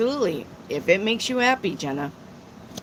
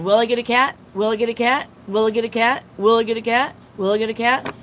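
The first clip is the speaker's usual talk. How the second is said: mock spamming viewer; much faster than usual. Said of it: "That's spamming".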